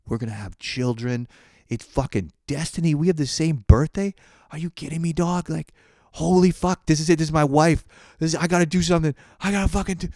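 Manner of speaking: high, loud giddy rush; mock giddy inner rant about destiny. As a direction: hype yourself up, voice climbing. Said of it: "immediately in my brain".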